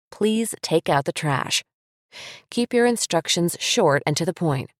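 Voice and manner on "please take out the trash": slow, steady "Please take out the trash." said as a statement; firm instruction. Shown as a demonstration. Parent telling child to take out trash, slow firm command. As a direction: state it plainly and mean it. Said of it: "Just say".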